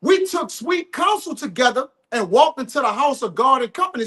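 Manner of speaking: measured, emphatic verse reading; scripture reading. Real, not acted. Reading the psalm about a friend's betrayal, emphatic scripture reading. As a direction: set out each phrase of the verse deliberately.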